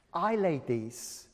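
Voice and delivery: put-on shy old neighbour offering eggs; quivering voice. Little Missus Wang offering her eggs, softly quivering. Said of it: "With a quivering voice".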